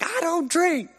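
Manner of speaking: very high, strained retort; imitated protest. Recruit answering the drill instructor's bribe, high-pitched protest. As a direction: cry it out in a high re-enacted protest.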